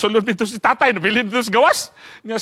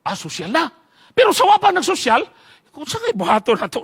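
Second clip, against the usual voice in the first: ordinary delivery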